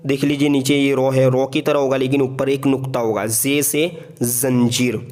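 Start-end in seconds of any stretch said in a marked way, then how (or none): 3.3-5.1 जे से जंजीर, very slow with a firm buzzing ज़. Shown as a demonstration. Teacher to learners: a slow, firm जे से जंजीर. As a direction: press hard on the जे in जंजीर. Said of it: "जे थोड़ा सख्ती से इसको हमें अदा करना है".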